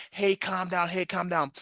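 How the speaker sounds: a high, teasing mimic of being told to calm down; mocking calm down. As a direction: parrot them lightly, mockingly. Mimicking people telling him calm.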